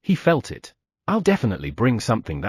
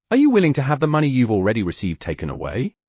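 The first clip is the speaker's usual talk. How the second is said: teasing threat; faster than usual. Acted.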